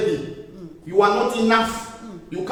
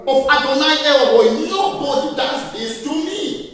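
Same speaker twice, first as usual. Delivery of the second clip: bold declaration; 3 semitones higher than usual. Shown as a demonstration. Rising up in anger.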